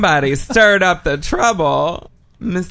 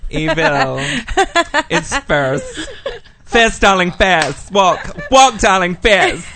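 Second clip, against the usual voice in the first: camp diva; 4 semitones higher than usual. Pretend. Camp runway coaching bit.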